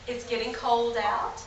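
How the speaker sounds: put-on kids show host. Shown as a demonstration. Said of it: "talking to you once again like the normal age".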